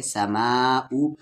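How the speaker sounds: समाऊ with मा held three to four beats; long madd stretch. Shown as a demonstration. Teacher showing madd before hamza, समाऊ stretched long. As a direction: pull the aa of समाऊ out very slowly before ऊ. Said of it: "तीन से चार अलिफ के बराबर खींचेंगे".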